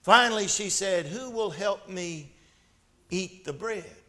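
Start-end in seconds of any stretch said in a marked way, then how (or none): 1.1-4.0 soft, understated storybook question; hushed setup for the punchline; quiet final question. A narrator's reading. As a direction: drop the volume and leave a pause mid-question. Sly final question in the fable.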